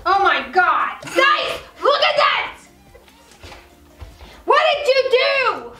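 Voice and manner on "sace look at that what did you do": high, mock dismay; mock shock. Wife finding Sace's mess, mock dismay. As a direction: act appalled at the mess.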